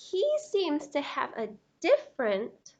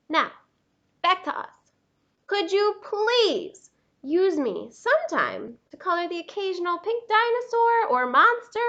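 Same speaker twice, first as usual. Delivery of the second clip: a lightly voiced, pushy crayon asking to be used; neglected pink crayon; 7 dB louder than usual. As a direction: read it like a crayon wanting attention.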